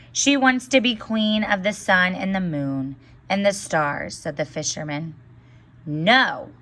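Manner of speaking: put-on lively storybook reading for children; story read aloud. A narrator's reading. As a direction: read the tale to the class, voicing each character. Teacher reads fairy tale aloud.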